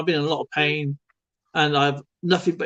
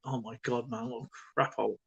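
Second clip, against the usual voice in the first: muttered thought; 4 semitones lower, 12 dB quieter than usual. Retold or imitated. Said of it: "I think".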